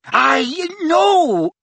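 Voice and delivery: high, strangled squeak; choked squeak. A narrator's reading. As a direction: gasp it out while choking. Mundungus choking.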